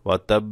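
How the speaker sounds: ওয়া তাব pausing on the b before releasing it; held doubled consonant. Shown as a demonstration. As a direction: hold the b in তাব briefly. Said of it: "এভাবে". (ওয়া তাব, ব-তে একটু দম রেখে)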